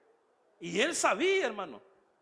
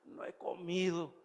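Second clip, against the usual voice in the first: slow, drawn-out fake complaint; mock whining; 3 dB quieter, slower than usual. Preacher mocks servants fretting over a missed meal, mock whining. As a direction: drag it out like a half-hearted moaner. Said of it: "No cree que ellos andaban llorando".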